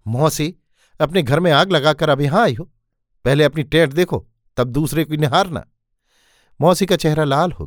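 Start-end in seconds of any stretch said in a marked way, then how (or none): 0.1-5.7 a mild raised yell, not full force; shouting at his aunt. Acted. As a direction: scold her with a lifted voice. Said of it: "तब चिल्लाकर बोला".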